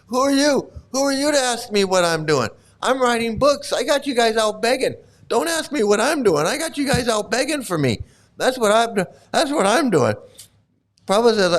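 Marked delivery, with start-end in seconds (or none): 0.1-10.1 high, indignant mock rant; hammed-up defensive outburst; mock mad. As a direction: brag back as an offended guru, pitched up. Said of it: "Prabhupada's getting mad".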